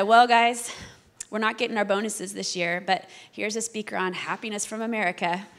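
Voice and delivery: put-on light Swiss accent, loud opening then easing off; a mild imitation of a Swiss HR manager. Grudging Swiss manager introducing the happiness speaker, light Swiss accent. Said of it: "That's my best Swiss accent I've got".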